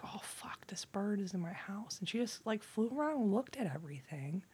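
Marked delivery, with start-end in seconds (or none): 0.0-2.0 hushed, softer alarmed whisper; startled whisper. Retold or imitated. Speaker whispering in alarm at the bird in her house. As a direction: whisper it so the bird won't hear.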